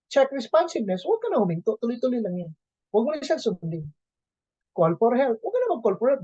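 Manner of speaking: a hint of a robotic AED prompt; mock AED voice. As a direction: read it like a machine barking instructions. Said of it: "Sabi ni A E D".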